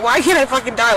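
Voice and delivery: retold desperate plea. Retelling her suicide attempt, exasperated plea. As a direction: demand it in exasperation, voice lifted. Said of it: "I was literally like".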